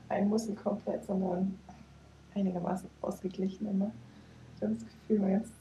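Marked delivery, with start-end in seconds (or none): 4.6-5.5 vibrating voice. Real, not acted. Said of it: "Die Stimme vibriert auch übrigens".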